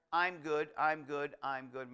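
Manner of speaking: fading, repeated polite refusals; mock brush-off. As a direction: wave them off, voice dropping away. Imitating passers-by declining at fair.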